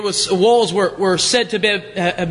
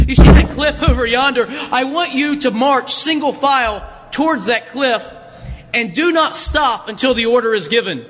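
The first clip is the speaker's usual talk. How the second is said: southern drawl; 2 semitones higher than usual. Acted. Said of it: "I suppose he spoke with a southern accent".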